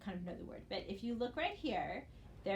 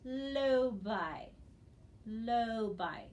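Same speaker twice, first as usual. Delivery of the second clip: reading out loud; 5 dB louder, much slower than usual. Shown as a demonstration. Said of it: "Let's read it together out loud".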